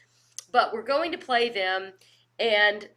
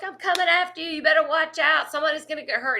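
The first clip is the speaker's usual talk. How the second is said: higher, taunting threats at the quarterback; higher mock-menacing trash talk; 5 semitones higher, 3 dB louder, faster than usual. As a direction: taunt him across the line. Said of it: "I am just talking trash".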